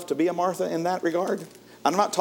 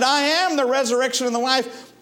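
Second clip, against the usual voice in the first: emphatic proclamation; 8 semitones higher, 3 dB louder than usual. Acted. Preacher repeats Jesus' words.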